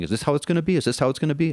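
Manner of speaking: very high, fast, furious angry shouting. Retelling how a man got mad when turned away, acting out angry yelling. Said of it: "He gets all mad, starts yelling".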